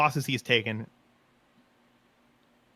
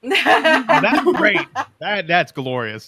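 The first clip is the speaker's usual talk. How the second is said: laughing; 6 semitones higher, 9 dB louder, much slower than usual. Real, not acted. Laughing at funny story.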